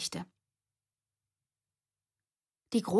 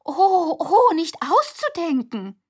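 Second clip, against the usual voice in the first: hammed-up cry of fright, much higher and louder; theatrical fake panic, drawn out; mock horror; 11 semitones higher, 10 dB louder, slower than usual. A narrator's reading. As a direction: overplay the terror as a joke. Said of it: "Cecilia tat so, als ob sie sich fürchtete".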